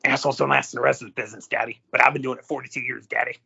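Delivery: lightly imitated wrestler's catchphrase delivery; Fonzie. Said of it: "Oh, wait, I'm sorry. Hold, hold on".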